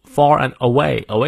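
"away" stressed on its long second syllable; slow phrase landing on "away". Shown as a demonstration. Teacher marks the stressed words, heavy stress on "away". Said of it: "away要重读".

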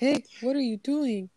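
light imitation of the big guy's funny voice; funny character voice. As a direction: mimic a movie character's comic greeting. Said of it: "his voice is funny".

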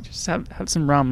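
imitated Afrikaner host offering a drink; casual South African bloke impression; South African accent. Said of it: "Keep going, the accent".

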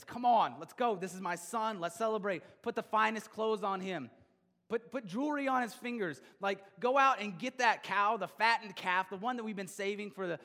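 loud, high, overjoyed father calling out; a father bursting with joy, calling to the servants to celebrate; joyful father. Acted. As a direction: shout the welcome like a father beside himself with joy. Father welcoming back his lost son.

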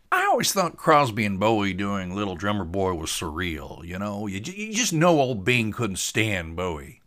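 lightly voiced chatty boat buddy; casual, slightly drawled opinion; musing buddy Tater. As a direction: muse aloud over the music.

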